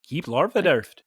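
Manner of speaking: Swedish-sounding gibberish; mock Swedish. Shown as a demonstration. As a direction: nonsense with a Swedish lilt. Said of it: "So he sounds Swedish".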